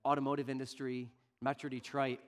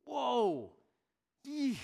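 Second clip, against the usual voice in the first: mock cringe; 8 semitones higher, much slower than usual. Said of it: "and you're".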